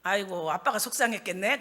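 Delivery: low, soft acted son; understated sympathy, voiced low; sympathetic son. Son on the phone feeling for his dad, sympathetic. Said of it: "아들이 한참 듣더니".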